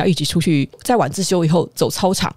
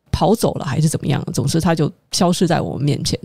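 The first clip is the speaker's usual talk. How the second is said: normal talking voice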